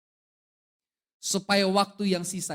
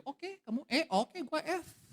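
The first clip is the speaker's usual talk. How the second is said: mock quarrel pushed higher; escalating pitch; 10 semitones higher, 4 dB quieter, slower than usual. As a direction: answer one note above your partner. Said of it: "kita kasih nada D".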